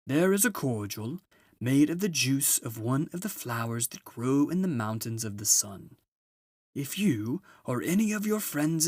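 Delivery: put-on a grand, merry old gift-giver arriving at last; Father Christmas announces his arrival to the children.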